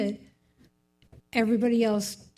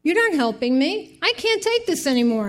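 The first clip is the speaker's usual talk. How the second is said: crying prayer; 7 semitones higher than usual. Retold or imitated. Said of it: "I'm crying".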